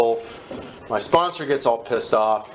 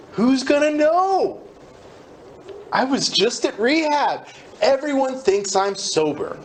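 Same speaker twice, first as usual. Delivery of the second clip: inner voice; 10 semitones higher than usual. Retold or imitated. Inner voice deciding to relapse.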